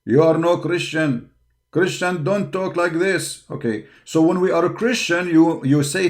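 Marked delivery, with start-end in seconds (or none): 0.0-3.4 a touch of a scolding critic, lightly voiced; lightly voiced mocking critic; mild mock accuser. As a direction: quote the accuser with only a hint of scorn. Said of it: "they will say to me".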